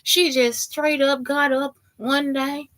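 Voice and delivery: lightly hammed-up heartbroken husband; oversharing lonely stranger. Texan stranger tells how wife left, mock lament. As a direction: imitate a stranger pouring out woes. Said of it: "They'll be in that mind".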